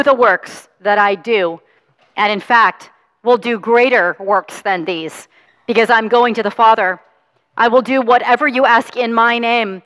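measured, solemn scripture reading; Gospel reading. Acted. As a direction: proclaim the Gospel to the congregation. Priest reads the Gospel aloud.

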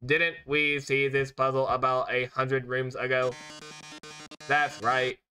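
lightly done robot host voice. Acted. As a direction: speak like a showy game-show robot. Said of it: "I need to do the robot voice".

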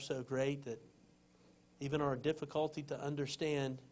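calm, earnest prayer voice. Acted. Closing prayer.

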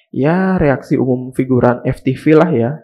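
chuckling through the line; amused, laughing it off. Real, not acted. Mocking the extras' reaction.

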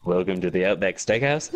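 lightly mock Australian greeter; Australian accent. Friend playing steakhouse host, in light Australian accent. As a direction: welcome guests with a put-on Australian accent. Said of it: "talk like them".

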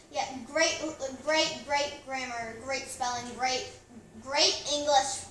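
slow, drawn-out sarcastic praise. Pretend. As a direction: drip with mock approval.

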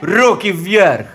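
put-on loud Russian-accented soldier orders; shouting commands. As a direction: bark it like a soldier. Angel holding shepherds at gunpoint.

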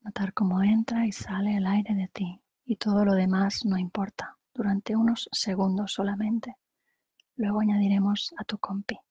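calm guided-meditation voice with long pauses; unhurried meditation leader, phrase by phrase. Acted. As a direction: guide them gently through breathing, pausing between phrases.

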